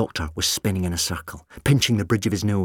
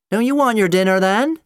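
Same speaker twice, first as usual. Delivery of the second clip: high, loud call through a door; 13 semitones higher, 6 dB louder than usual. A narrator's reading. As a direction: call out loudly from the other side. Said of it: "Sally's voice called".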